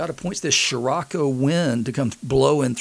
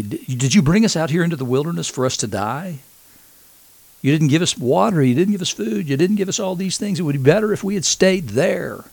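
higher, indignant griping Israelites; whiny complaint; 5 semitones higher than usual. Retold or imitated. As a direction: whine at Moses, higher and aggrieved. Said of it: "very similar to the complaints".

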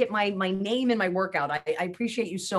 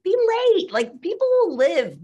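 high and loud, playfully insistent; excited permission; 9 semitones higher, 6 dB louder than usual. Real, not acted. Guest telling listeners being late is fine, high and loud. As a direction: toss it off like a joyful dare.

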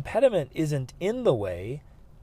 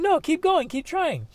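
much higher, eager coaxing; high encouragement. Retold or imitated. Inner voice pushing him to keep greeting people, eager. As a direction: urge yourself on. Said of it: "It's like".

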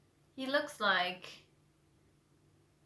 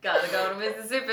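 quoted southern line; 5 dB louder than usual. Retold or imitated. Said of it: "What was that from?".

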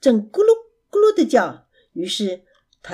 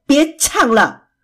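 angry; 3 semitones higher, 6 dB louder than usual. Acted. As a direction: snap at the noisy pair to stop singing. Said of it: "贝熊生气地坐起来". (生气地大声训斥)

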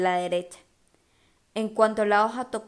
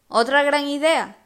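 sarcastic; 5 semitones higher, 6 dB louder than usual. A narrator's reading. Sarcastic thought, voiced.

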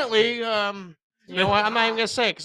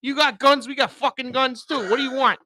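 put-on Boston accent; 5 semitones higher than usual. Visitor facing down Texans, brash Boston accent. Joins the Boston tough-guy act.

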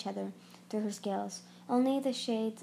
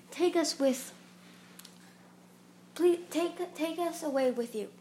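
pleading; 6 semitones higher than usual. A narrator's reading. Tsunami begging Marasira.

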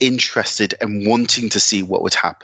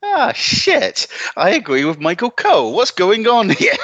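high mock dismay; 10 semitones higher than usual. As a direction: squeal it in mock alarm. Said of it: "And then I'm like".

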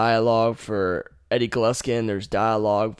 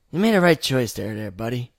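lightly voiced Traeger. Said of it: "you meet Traeger".

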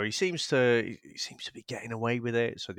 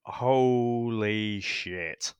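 stunned awe; much slower than usual. Retold or imitated. Remembering shock at the scene.

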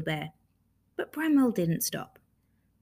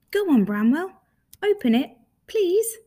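louder, higher, building to a pleading "please"; eager urging; 9 semitones higher, 6 dB louder than usual. Acted. Rabbit begs Bramwell to open the box, eager urging. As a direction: urge him on, pitch climbing to a beg.

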